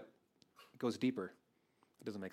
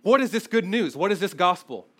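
higher, louder excited question; eager listener asking; 5 semitones higher, 7 dB louder than usual. Retold or imitated. Preacher voicing a listener who eagerly demands the answer, louder. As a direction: ask it like you can't wait to hear. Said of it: "And you say".

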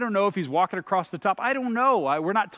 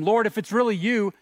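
louder, higher appeal to someone at a distance; calling out; 4 semitones higher, 5 dB louder than usual. Acted. Peter calling to Jesus on the water, raised-voice appeal. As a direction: call it out over the storm. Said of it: "Then Peter called to him".

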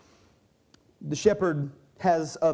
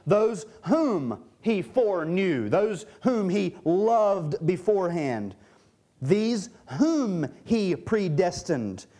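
slow, deliberate, each "whom" drawn out; stress on "whom"; 2 semitones higher, slower than usual. Real, not acted. Preacher shows the subject left out of a translation, "whom" slowly emphasized. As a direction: hammer "whom" slowly in every phrase. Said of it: "I'm emphasizing the word whom".

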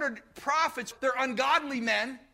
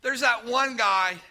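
lightly voiced grudging king with a sigh; a hint of a sulky king, drawing it out; reluctant Ahab; 4 dB louder, slower than usual. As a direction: Ahab grumbling about the one true prophet. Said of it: "Ahab reply".

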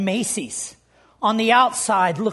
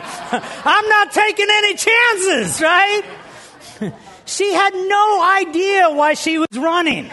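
laughing punchline; 6 semitones higher, 3 dB louder than usual. Acted. Comic punchline of chase story.

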